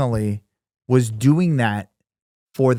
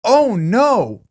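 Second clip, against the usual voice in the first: high, drawn-out mock horror; hammed-up dismay; 9 semitones higher, 3 dB louder than usual. Reacting to the bank scam in a skit, exaggerated alarm. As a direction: overact a shocked reaction. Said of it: "You're the worst actor".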